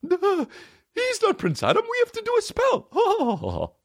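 very high, slow, shouted cartoon wizard. Mocking his laughing buddy as the He-Man wizard, high slow shout. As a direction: belt it out like a squeaky eighties wizard. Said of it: "That's Zach Doncovio, the fucking wizard".

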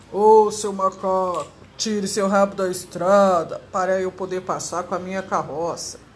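a touch of a rough carter shouting across the road; cart driver calling out. A narrator's reading. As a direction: hail the monkey from the cart, a hint of gruff driver. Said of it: "disse o carroceiro".

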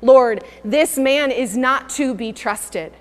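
slow, a hint of a wary believer; imitating Ananias. Ananias warning God about Saul, slow and wary. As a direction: spell out the distrust slowly. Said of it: "he is saying".

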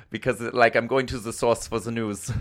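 lightly put-on German accent. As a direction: slip into a playful German character accent. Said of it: "interview people in that accent".

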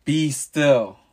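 high, loud commanding shout; thundering command. A narrator's reading. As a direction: thunder it over the storm. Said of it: "he shouted".

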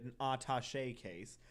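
attaché said as ah-tah-SHAY. Real, not acted. Host saying attaché the fancy French way. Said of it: "that's what I said".

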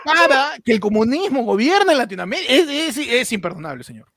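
mock spokeswoman breaking into laughter; laughing through lines. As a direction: try to stay in role while cracking up.

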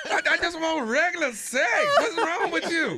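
bewildered laughing protest; laughing mock complaint. The young guy protesting her antics, laughing. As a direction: plead through laughter. Voicing the harassed young lover.

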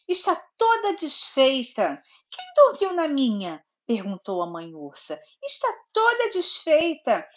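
storybook narration with lively character lines; reading to a child. A narrator's reading. Mother reading Goldilocks to her little daughter, storybook narration. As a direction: read it like a bedtime story for a toddler.

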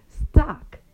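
very slow, deliberate ending; drawn-out emphasis. Real, not acted. Warning viewers about parts out of stock, drawn-out emphasis. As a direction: stretch the word right out.

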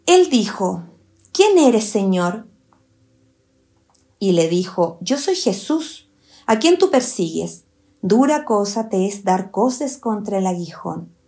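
deliberate Bible reading with pauses between phrases; scripture reading. Acted. Teacher reads Saulo's exchange to listeners, measured scripture reading. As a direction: read the dialogue as solemn scripture.

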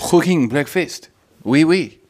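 high, loud, hammed-up French accent; comic French roommate accent, pitched high and loud; mock French accent. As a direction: do a slow, exaggerated French accent. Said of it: "put on a French accent".

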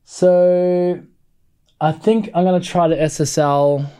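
speaking away from the microphone; distant, off-mic voice; far from mic. Real, not acted. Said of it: "step away from the mic for a second".

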